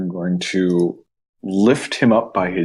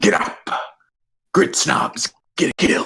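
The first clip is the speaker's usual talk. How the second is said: acted, high-pitched, close whisper; 5 semitones higher than usual. Voicing a character lifting an enemy by the beard: whispering in character. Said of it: "he whispers in your ear".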